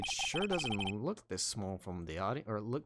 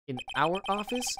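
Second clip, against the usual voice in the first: pitched higher, rising on office; incredulous echo; 7 semitones higher, 5 dB louder than usual. Acted. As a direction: repeat it back in disbelief. Indignant echo of the suggestion.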